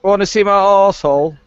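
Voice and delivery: put-on Scottish accent. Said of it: "Raz, do a Scottish accent".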